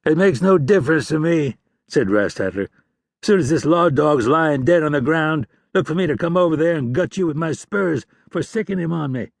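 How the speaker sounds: lightly voiced cold outlaw; scornful outlaw. A narrator's reading. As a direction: sneer down the street. Rastatler threatening both men.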